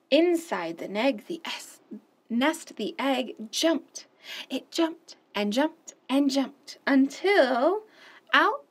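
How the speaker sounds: animated picture-book read-aloud; expressive children's story narration. Acted. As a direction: read it like story time for little ones.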